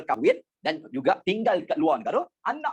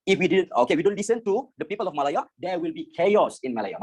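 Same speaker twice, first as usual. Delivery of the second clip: quoting officials. Retold or imitated. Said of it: "William Rees and L D Gammon cakap tu".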